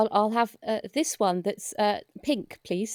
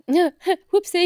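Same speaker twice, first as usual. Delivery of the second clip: laughing whoopsie; 8 semitones higher, 5 dB louder than usual. Acted. Laughing exclaim at near drop.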